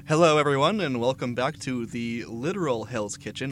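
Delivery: loud cheerful demon TV chef; Beelzebub. Pretend. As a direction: ham up a devil cooking show host. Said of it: "I am your host, Beelzebub".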